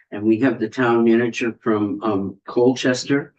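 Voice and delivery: talking with a mouth full of food. Real, not acted. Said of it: "catching me with my mouth full".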